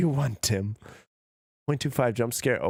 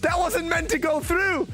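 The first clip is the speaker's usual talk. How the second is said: embarrassed panic. Real, not acted. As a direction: scramble in real embarrassment. Panicked on hearing own clip.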